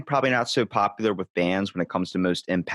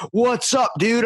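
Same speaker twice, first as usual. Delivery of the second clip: much higher, buzzing surfer-dude greeting; excited rock singer; 11 semitones higher, 3 dB louder, slower than usual. Retold or imitated. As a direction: hype him up like a stoked singer. Singer greets him in story.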